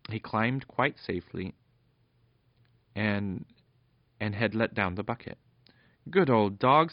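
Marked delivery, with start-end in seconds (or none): 6.1-6.9 delighted cheer. Acted. Fenella cheering the dog.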